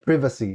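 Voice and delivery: "Privacy" with a short i, as in privet; British-style privacy. Shown as a demonstration. Guest imitates British speakers, "Privacy" with short PRIV. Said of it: "I've heard British people saying".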